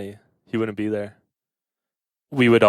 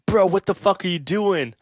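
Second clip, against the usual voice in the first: high-pitched New York cop; New York accent; 9 semitones higher than usual. Retold or imitated. Cop screaming at a guy by the van, New York accent. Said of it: "I like your New York accent".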